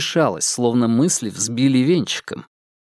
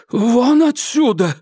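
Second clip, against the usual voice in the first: higher, louder, slow order; hoarse fury; 11 semitones higher, 4 dB louder, slower than usual. Acted. Irma throws her sister out, high and loud. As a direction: drive her out, voice cracking. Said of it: "Чужим, охрипшим голосом выговорила она".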